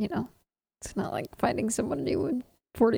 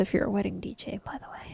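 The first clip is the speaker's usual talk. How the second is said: whispering; 8 dB quieter than usual. Real, not acted. Aside disclaimer.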